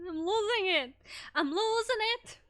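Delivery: mock panic. Streamer fretting over a lost Russian accent, in mock panic.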